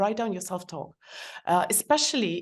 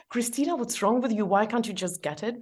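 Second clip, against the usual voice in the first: harsh self-talk; 4 semitones higher than usual. Shown as a demonstration.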